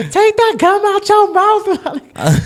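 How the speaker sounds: high, slow mock yell at someone; retold yelling. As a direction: bark the order like a strict lady. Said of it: "she was literally yelling at her".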